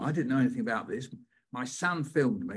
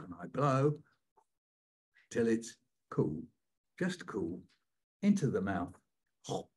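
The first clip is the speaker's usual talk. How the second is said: storyteller performing a family poem; performing his poem. Shown as a demonstration. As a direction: act out the hot potato poem. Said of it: "can you say nice".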